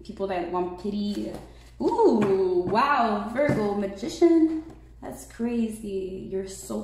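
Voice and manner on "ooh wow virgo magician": loud delighted ooh and wow; surprised. Real, not acted. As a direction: react with genuine surprise to the cards. Surprised at drawn tarot cards.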